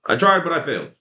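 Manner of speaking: lightly whiny made-up excuse; mock excuse. Vlogger mimics a quitter's excuse, mock whine. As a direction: act out a lame excuse with a sigh. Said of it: "use the excuse of".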